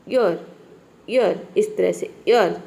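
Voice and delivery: ईयर modelled with barely any r; pronunciation demo. Shown as a demonstration. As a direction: drill ईयर for the class, gently. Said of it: "इस तरह से आप इसको pronounce करेंगे".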